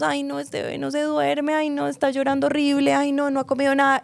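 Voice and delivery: high, whiny, rushed complaint; a stressed mother texting in a panic; hammed-up anxious mother venting about the baby; mock frantic new mom. Mock frantic postpartum texts.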